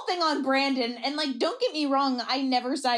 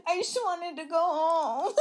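imitated tearful whine, laugh creeping in; half-hearted crying through amusement; mock sobbing; 3 semitones higher than usual. Imitating Jamie sobbing after getting the rose, mock tearful. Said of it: "What if she's sobbing 'cause she's sad?".

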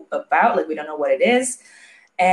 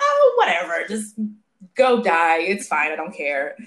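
callous indifference. Retold or imitated. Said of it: "the ones who are actually in power are like".

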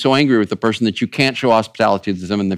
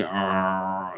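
low grumble; 6 semitones lower, 12 dB quieter than usual. Shown as a demonstration. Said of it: "the grumbling is usually".

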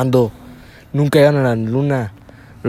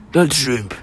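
Adela Micha. Acted. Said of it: "y tú eres Adela Micha".

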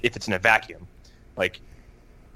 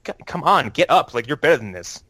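urging father. Retold or imitated. Father urging his beaten oldest son, mildly insistent.

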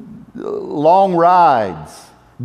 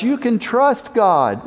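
raised, slow declaration; preacher voicing Abel's cry, raised and slow; 4 semitones higher, slower than usual. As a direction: proclaim it slowly, lifted. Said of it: "he cries out".

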